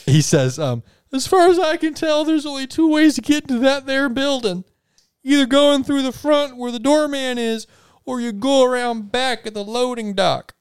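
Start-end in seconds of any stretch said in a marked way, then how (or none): 1.1-10.5 high, jittery waiter voice; nervous waiter. Acted. Waiter answering the party's call, high and jumpy. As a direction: squeak it out like a nervous little waiter.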